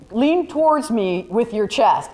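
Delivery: slow, drawn-out "Lean towards me with your chest"; mock-creepy slow request, lightly done; grabby, invasive request. Shown as a demonstration. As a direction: make the ask feel pushy and invasive. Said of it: "Your hand this way is invasive".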